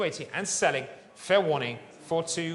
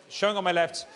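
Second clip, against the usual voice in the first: fine art auctioneer. Acted. Live art auction calling bids.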